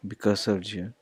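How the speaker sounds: "Because of you" repetido mucho más suave; repítelo casi en voz baja. Shown as a demonstration. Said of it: "we also have the R".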